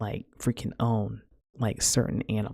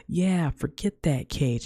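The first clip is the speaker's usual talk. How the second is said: higher, drawn-out mock goading; egging on; 5 semitones higher, slower than usual. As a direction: imitate someone egging a parrot on. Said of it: "egging him on".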